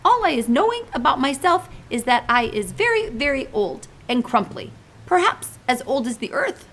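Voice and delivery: big friendly giant pleading gently; giant's voice. Acted. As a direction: play the kindly muddled giant. BFG describes himself.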